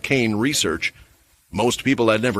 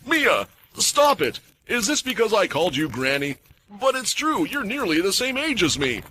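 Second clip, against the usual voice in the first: panicked pleading; 10 semitones higher than usual. A narrator's reading. Lenny burned, pleading.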